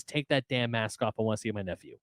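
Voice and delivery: lightly voiced Aunt May. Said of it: "where she says".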